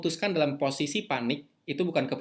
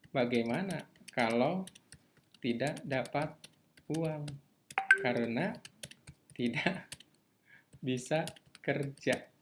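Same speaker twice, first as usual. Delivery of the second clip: voicing a fear, slowly; slower than usual. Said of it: "Ada yang takut kayak gitu?".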